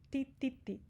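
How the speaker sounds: "Ti" repeated as a crisp tee, no ch; "Ti" with a pure t; hard Spanish ti. Shown as a demonstration. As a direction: tap out "Ti, ti, ti" with a clean t. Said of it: "No espanhol tem ti e di".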